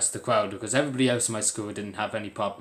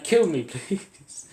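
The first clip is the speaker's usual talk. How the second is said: drawn-out, higher mock begging; laughing mock plea; 6 semitones higher, much slower than usual. Vlogger joking about being made to do maths, laughing mock plea. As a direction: plead jokingly, laughing through it.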